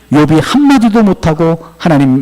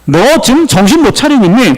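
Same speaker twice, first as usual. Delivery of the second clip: higher-pitched, acted scolding; rebuking; 4 semitones higher than usual. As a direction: scold as God pulling Jeremiah up short. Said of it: "예레미야를 책망하고 있어요".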